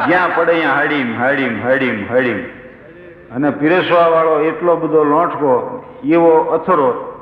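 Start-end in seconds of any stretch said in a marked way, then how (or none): 0.7-1.2 "હાડીમ" ઝડપથી, ભારે ધબકાર જેવો; લાડવો પડે એનો ધબ્બો, ઝડપી; નક્કર થાળીનો અવાજ. Retold or imitated. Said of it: "એવો થાળીમાં અવાજ આવે". 1.2-2.4 "હાડીમ, હાડીમ" નીચા સૂરે, ધીમા અવાજે; પડઘો શમતો જાય એમ બોલો; ધીમો પડતો ધબકાર. Retold or imitated. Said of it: "એવો થાળીમાં અવાજ આવે".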